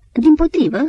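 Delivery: high, loud eager protest; sharp high protest, almost a cry. Acted. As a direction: cut in fast to object. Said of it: "protesta Antim".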